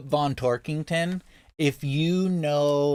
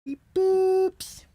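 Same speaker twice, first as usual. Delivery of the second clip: robot voice. Pretend. Playful robot beeping.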